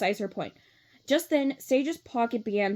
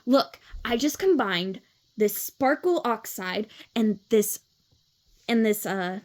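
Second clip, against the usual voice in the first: Adora's voice. Shown as a demonstration. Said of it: "then Adora's is".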